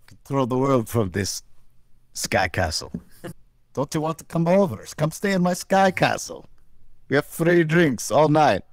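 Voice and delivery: jokey Russian villain luring guests to his sky castle; bad Russian accent. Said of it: "two guys doing bad Russian accents".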